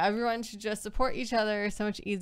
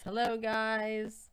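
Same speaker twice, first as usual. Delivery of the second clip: slow, stretched hello, a little higher; drawn-out greeting; 4 semitones higher, much slower than usual. Acted. Co-host reading a viewer's greeting, slow drawn-out hello. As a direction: draw each word out lazily.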